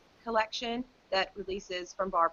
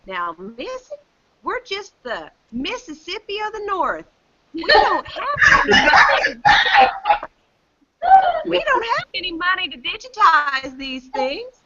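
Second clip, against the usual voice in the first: lightly voiced folksy official, rising loud on "We don't have any money"; a hint of a chummy clerk turning exasperated; mock folksy protest, louder on the money line; retold official; 9 semitones higher, 9 dB louder than usual. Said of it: "he said it in a South Dakota accent".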